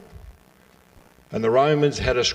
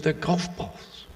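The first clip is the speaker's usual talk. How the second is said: higher, drawn-out, mock-irritated Scotsman; exasperated Scottish golfer, pitched up and slow; 7 semitones higher, 5 dB quieter, slower than usual. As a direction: repeat it slowly, with comic irritation. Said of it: "So he was irritated".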